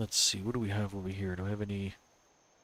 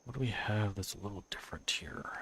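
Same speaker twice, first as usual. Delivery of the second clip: whispering; 7 dB quieter than usual. Real, not acted. Browsing build menu aloud.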